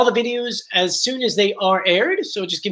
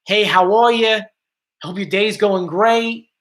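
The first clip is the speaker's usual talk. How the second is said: casual Philadelphia greeting accent; drawn-out, easygoing Philadelphia accent. Shown as a demonstration. Streamer demonstrating how Philadelphia talks, Philadelphia accent. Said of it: "While Philadelphia is more like".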